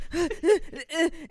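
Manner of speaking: short, high panicky gasps; mock panting in a panic; imitated hyperventilating. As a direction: act out frantic gulps of air. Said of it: "I'm, like, hyperventilating".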